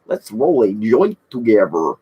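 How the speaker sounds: slow stoner game-character voice; game character impression. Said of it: "That's the guy from".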